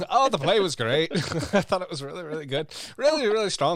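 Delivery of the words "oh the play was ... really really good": hammed-up Scottish accent, lively and high. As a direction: play a theatre-goer with a put-on Scottish accent. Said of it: "Oh, are you Scottish?".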